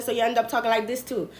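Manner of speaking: a light Bahamian Caribbean lilt, quick; Caribbean accent. Shown as a demonstration. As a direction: drop into a mild Caribbean accent. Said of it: "I also am Bahamian, and my husband's family is also Caribbean".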